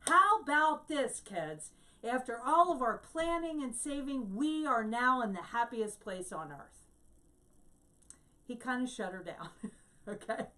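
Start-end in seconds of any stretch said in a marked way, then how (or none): 0.1-6.9 loud, emphatic mock announcement; husband shutting down complaints. Imitating a husband to his complaining wife and kids, pointed mock enthusiasm. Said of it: "here's what he says".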